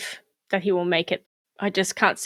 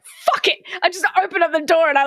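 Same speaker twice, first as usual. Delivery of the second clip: laughing; 7 semitones higher, 4 dB louder, much faster than usual. Retold or imitated. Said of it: "I was like".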